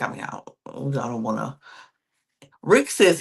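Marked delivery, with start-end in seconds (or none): 0.0-1.6 retold whisper. Rick whispering back to Savannah.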